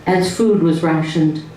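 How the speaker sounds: slow, measured recital of a sad poem; poem reading. Acted. Wife reads a poem from the book to the audience, slow recital. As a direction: read each line slowly to the room.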